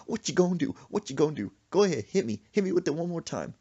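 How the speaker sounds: high, goading mother's challenge; taunting dare. Retold or imitated. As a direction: dare your son to try it. Mother dares son to retaliate.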